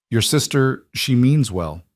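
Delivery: put-on older woman, thick Polish accent. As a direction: speak with a heavy Polish accent. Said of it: "in her thick accent".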